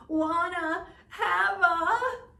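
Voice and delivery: put-on high, far whiny baby cry; whining baby raven. A narrator's reading. Baby Raven whines to his grandfather. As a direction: wail it like a fussy baby bird.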